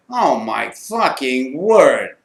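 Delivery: slow, drawn-out dismay; retold stunned reaction; stunned disbelief. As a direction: let each word sink in. Reaction to the friend's injury.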